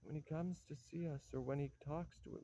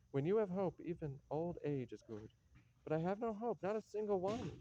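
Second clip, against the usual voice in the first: high, louder lament about hope; despairing cry; 4 semitones higher, 3 dB louder than usual. Acted. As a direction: cry out that all hope is gone. Despairing old man's lament.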